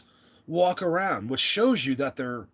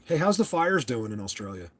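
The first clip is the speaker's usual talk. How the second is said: idiot American; 3 semitones lower than usual. Pretend. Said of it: "I sound like an idiot American".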